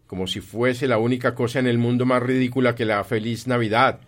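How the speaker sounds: loud, sustained contempt; scornful. Acted. Scrooge ridicules his nephew's reason, loudly contemptuous. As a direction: keep the scorn up to the end.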